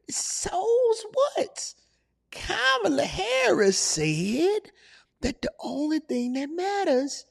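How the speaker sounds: put-on slow, high old codger; old man voice. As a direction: grumble like a cranky elder. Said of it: "all right, Unc".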